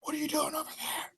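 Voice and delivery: hushed, breathy mock call in a high voice; playing along. Dentry calls over to Jackson, playing along, in a hushed voice. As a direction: call out softly in a thin high whisper. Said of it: "he's gonna try and play along".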